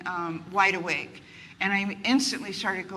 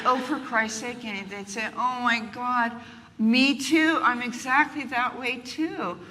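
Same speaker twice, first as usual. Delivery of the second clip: eager agreement; 4 semitones higher, 4 dB louder, slower than usual. Retold or imitated. Acted friends' eager reply.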